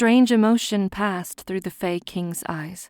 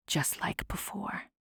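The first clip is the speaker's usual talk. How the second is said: bitter whispered ending; whispering; 12 dB quieter than usual. A narrator's reading. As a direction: drop it to a whisper. Bitter trailing admission.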